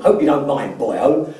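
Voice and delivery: imitated Welsh accent. Former client greeting the coach before a meeting, imitated Welsh accent. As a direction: lightly put on a Welsh lilt. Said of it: "in this deep, um, Welsh accent".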